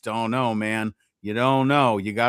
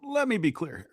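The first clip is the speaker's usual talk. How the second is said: a hint of Obama's measured cadence; Obama impression; 12 semitones higher, 6 dB quieter, faster than usual. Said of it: "Can you give me the Obama voice?".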